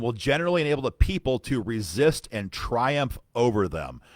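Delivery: emphatic, declamatory reading of an official letter; letter read aloud. Acted. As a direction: read it out firmly like a formal rebuttal.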